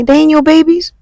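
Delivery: high, sing-song taunt; high mocking. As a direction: pitch it up and taunt. Doctor delivering blunt news.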